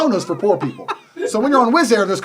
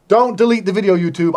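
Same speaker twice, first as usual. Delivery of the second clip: pleading; 4 dB louder than usual. Real, not acted. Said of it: "I'm begging you not to delete it".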